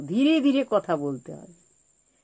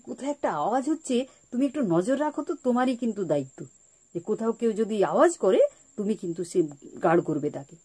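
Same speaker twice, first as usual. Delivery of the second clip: sweet coaxing; faster than usual. Retold or imitated. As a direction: gently hand the child a job. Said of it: "ওকে মিষ্টি করে খুব প্যার সে আদর করে বললাম". (আদর করে মিষ্টি করে বলা)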